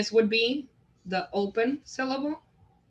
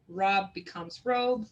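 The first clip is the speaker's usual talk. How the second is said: slow demo; slower than usual. Shown as a demonstration. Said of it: "folding and unfolding".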